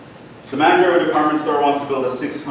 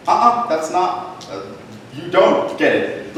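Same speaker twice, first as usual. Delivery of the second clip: slow, higher, teasing correction; 4 semitones higher, slower than usual. Retold or imitated. Teacher telling an overeager student no, slow and teasing. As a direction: drag out the no like a knowing teacher.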